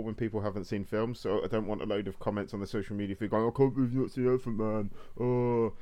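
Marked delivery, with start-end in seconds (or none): 3.5-4.9 nasal, whining nerd complaint; whiny nerd voice. Retold or imitated. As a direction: whine it like an indignant nerd. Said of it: "I was merely doing my whiny nerd voice".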